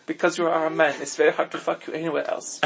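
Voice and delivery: put-on German accent, deadpan. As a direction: explain it like a mock German. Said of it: "do the German accents".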